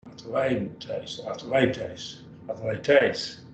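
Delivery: athletes said ah-teh-LAY-tays; teacher's model Greek. Shown as a demonstration. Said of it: "The word ath".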